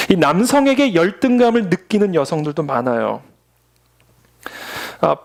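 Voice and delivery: normal talking voice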